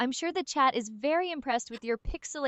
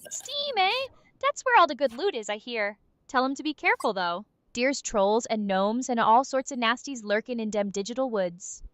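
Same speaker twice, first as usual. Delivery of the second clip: lightly voiced goblin, dropping th to d; a hint of a wary old goblin. Goblin warns chat about lurking nasties, goblin voice. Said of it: "you tried to impersonate a goblin".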